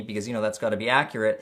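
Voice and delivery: quick dry sarcastic aside. Real, not acted. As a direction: toss it off sarcastically. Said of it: "I'm in a way too sarcastic mood".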